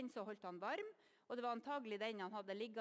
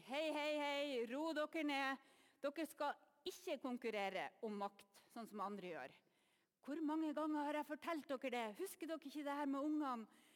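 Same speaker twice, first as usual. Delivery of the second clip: raised, higher-pitched telling-off; exasperated scolding; 5 semitones higher than usual. Acted. Jesus breaks up his disciples' squabble over power, exasperated scolding. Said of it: "ser for meg at Jesus måtte si".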